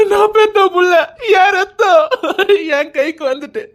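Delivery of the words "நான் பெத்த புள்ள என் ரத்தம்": tearful, overjoyed father; crying out in joy. Acted. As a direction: burst out weeping with joy.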